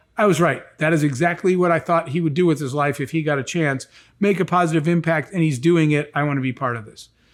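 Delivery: ordinary delivery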